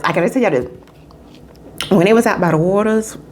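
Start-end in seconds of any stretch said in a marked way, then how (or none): 0.0-1.9 softer, slower aside; hushed repeat. Real, not acted. Repeats it low.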